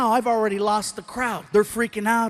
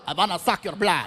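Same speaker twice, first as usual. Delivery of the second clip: hammy Transylvanian vampire; cartoon vampire; 3 semitones lower than usual. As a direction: put on a mock Dracula-style accent. Imitates a vampire bat.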